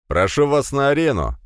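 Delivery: loud, high arena announcement; announcer call. Acted. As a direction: ring it out to the crowd. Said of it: "объявил он". (громкое объявление)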